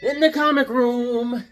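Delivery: loud, high, drawn-out greeting; big slow announcer-style hello; channel intro holler. Real, not acted. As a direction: belt out the show opening, stretching words. Show opening called out to viewers.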